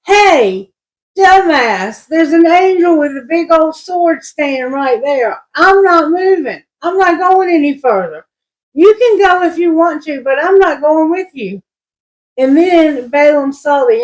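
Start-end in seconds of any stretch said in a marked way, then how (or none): 0.1-11.6 higher-pitched mock donkey voice, cheeky and stubborn; talking donkey. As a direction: play the stubborn donkey telling off his master, pitched up.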